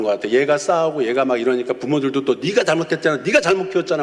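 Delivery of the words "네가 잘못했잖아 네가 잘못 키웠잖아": high-pitched mock blaming; retold parents' quarrel. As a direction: imitate bickering parents throwing blame. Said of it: "하면서 막 또 싸우고".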